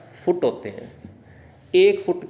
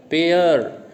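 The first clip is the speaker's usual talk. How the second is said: पेयर drawn out with weight; stressed syllable; 3 dB louder, much slower than usual. Shown as a demonstration. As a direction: put full stress on पेयर. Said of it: "पेयर पे ज़्यादा देना है". (पेयर पर पूरा ज़ोर)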